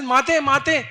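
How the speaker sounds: acted tearful plea; choked crying. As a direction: call out to mother, acting distressed. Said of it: "voice is choked".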